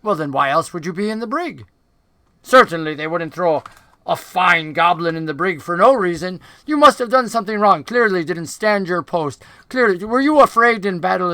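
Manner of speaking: lightly voiced goblin, pressing questions; accusing dark goblin. Dark goblin accusing a prisoner of deserting his post, insistent and rising. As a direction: interrogate him, pitch jumping as the accusations mount.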